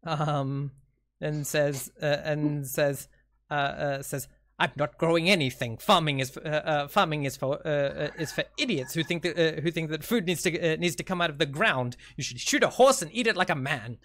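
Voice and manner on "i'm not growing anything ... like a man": put-on a touch of grumpy old man; lightly voiced grumpy old man. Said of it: "speak in a grumpy old man voice".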